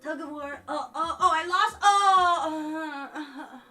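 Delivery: lightly voiced, dragged-out fake cool boy; mock nonchalant guy. Retelling a viral video's nonchalant boy, mock cool drawl. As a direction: imitate a kid playing it too cool. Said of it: "trying to be so cool and nonchalant".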